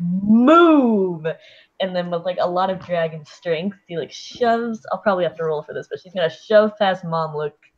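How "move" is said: very loud, thundering, booming, drawn-out yell. A tabletop player voices her character ordering Momlook aside, loudest, most booming voice. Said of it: "in the loudest, most booming voice".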